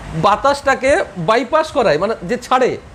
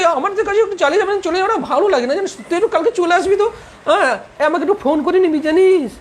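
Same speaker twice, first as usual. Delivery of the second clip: higher, mock stylish city youngster; put-on city style; 5 semitones higher than usual. Teacher mocking city boys and girls to students, put-on stylish voice. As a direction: show off with affected city chat. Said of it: "style বেড়ে যাবে".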